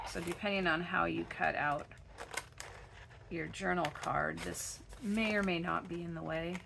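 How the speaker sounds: hoarse, gravelly voice; froggy voice. Real, not acted. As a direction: talk through a froggy throat. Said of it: "Sorry for my froggy voice".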